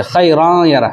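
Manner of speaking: خیران with an open long aa, hidden n, no merge into یرہ; ikhfa mistake. Shown as a demonstration. Teacher shows children's mistake, خیران with long aa and hidden n. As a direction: say خیران یرہ slowly with "raan", not a merged "rayn". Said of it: "تو اخفا کی آواز ہو گئی".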